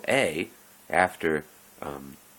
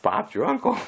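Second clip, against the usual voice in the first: much higher, louder, jaunty tag line; quip in a put-on voice; 11 semitones higher, 5 dB louder than usual. Odd guy sealing his hint, higher and louder put-on voice. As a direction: toss it off like a Monty Python sketch.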